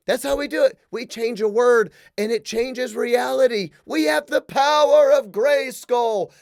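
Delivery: mock heroic proclamation. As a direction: ham up the He-Man battle cry, drawn out. Mocking grand slogan, He-Man cry.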